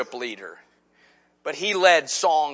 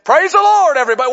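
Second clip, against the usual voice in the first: higher, louder song-leader call in a West Virginia drawl; 10 semitones higher, 6 dB louder, faster than usual. Retold or imitated. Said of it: "James Wellman stood up and said".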